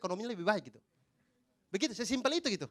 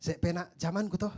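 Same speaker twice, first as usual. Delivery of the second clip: put-on Javanese accent; 3 semitones lower than usual.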